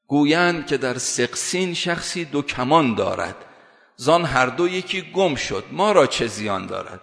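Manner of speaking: slow, measured verse recitation; poetry recitation. Acted. Preacher quotes Molavi to make his point, slow poetry recitation. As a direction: recite the verse slowly, stretching each phrase.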